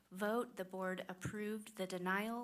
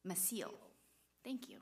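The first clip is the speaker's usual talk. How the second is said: ordinary talk, nothing marked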